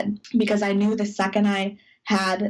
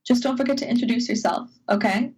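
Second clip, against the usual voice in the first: 1 brisk crew member; 3 semitones higher, faster than usual. Retold or imitated. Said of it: "the crew member is like".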